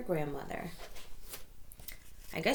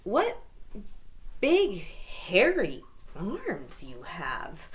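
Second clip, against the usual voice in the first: careful; slower than usual. Acted. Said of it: "Little Red said carefully".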